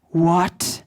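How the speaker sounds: put-on a low, drawn-out tempting inner voice of Russian accent; mock tempting whisper of a second voice; lightly voiced temptress within. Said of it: "the second voice in my head went".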